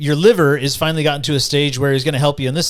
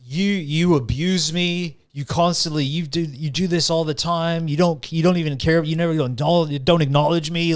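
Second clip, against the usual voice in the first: mock accusing rebuke; 3 semitones higher than usual. Liver scolding the man who abused it, mock accusing. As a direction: act out a mildly outraged telling-off. Liver berating him in retold story.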